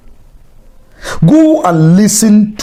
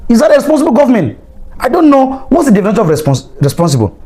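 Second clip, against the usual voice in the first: high, heated rhetorical questions; angry; 6 semitones higher than usual. Real, not acted. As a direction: fire each charge higher. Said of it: "I'm just being angry".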